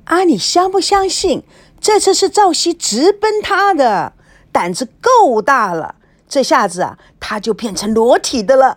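high, loud, gossipy glee; gleeful gossip. Acted. Roommate gossiping about the famous host, high and gleeful. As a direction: relish the juicy news.

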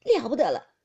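loud, alarmed cry; panicked. A narrator's reading. Baoyu sees blood on the floor, panicked. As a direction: exclaim in sudden panic. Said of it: "宝玉慌了".

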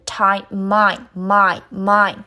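"time, mine" as tai-mai, m carried over; linked pronunciation. Shown as a demonstration. Teacher showing time joined to I, saying "mine" repeatedly. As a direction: slide the m of "time" onto I, heard as "mine". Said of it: "Time和I连读成".

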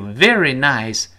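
"very nice" slow, both words stressed. Shown as a demonstration. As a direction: lean slowly on "very nice". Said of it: "这重读了". (慢读并重读"very nice")

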